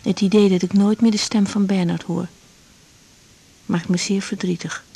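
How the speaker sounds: calm, inward diary reading; diary voice-over. Acted. Woman reading her diary entry aloud, calm and inward.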